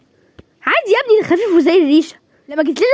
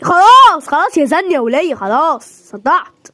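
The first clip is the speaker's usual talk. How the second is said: fed up; 4 dB louder, slower than usual. Acted. Husband snaps at nagging wife.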